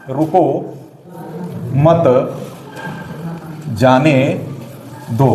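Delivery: word by word with long gaps; dictation. Shown as a demonstration. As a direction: dictate slowly, pausing after every word. Dictating example slowly while writing.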